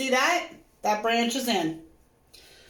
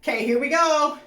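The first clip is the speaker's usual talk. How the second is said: excited dread. Real, not acted. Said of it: "I'm so excited and nervous at the same time".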